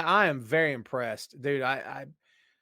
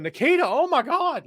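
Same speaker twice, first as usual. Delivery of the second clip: put-on scared kid; 12 semitones higher, 5 dB louder than usual.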